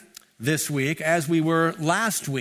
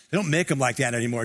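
ordinary talk

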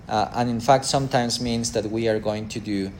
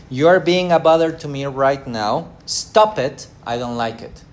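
mock annoyed scolding, louder on stop it; irritated parent; 3 dB louder than usual. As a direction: snap at the child who bothers you. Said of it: "correction equals".

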